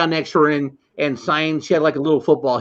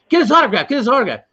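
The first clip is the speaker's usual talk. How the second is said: insistent nagging friend; 6 semitones higher, faster than usual. Retold or imitated. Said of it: "my buddy Harold the whole time is going".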